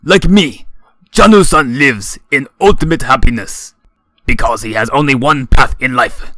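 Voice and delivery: put-on sermonize, drunk and proud; slurred drunken speech. A narrator's reading. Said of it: "gives his slurred speech".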